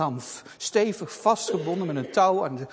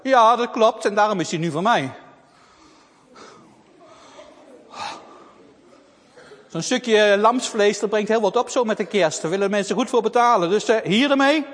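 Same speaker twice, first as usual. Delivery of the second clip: greedy thief; 3 semitones higher, 7 dB louder than usual. Acted. Thief answers girl.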